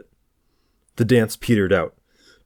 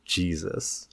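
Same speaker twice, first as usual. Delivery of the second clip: a soft muttered Jesus, much quieter; 8 dB quieter than usual. A narrator's reading. George reacts to Philippe's odd order, muttering. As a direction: mutter it under your breath. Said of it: "George muttered".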